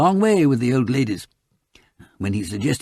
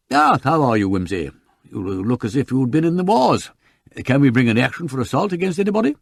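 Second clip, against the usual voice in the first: effusive learned counsel; 2 semitones higher, 4 dB louder than usual. Acted. Counsel bursting in on waiting colleagues, effusive. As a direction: hold forth like a busy learned counsel. Sir Impey bursting in, apologising.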